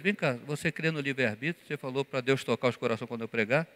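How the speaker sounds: hushed teasing aside to a fellow pastor; said in his ear. Retold or imitated. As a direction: lean in and murmur it to him privately. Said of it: "falei no ouvido dele".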